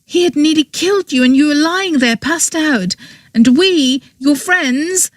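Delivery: angry confession. A narrator's reading. Girl's angry explanation of the murder.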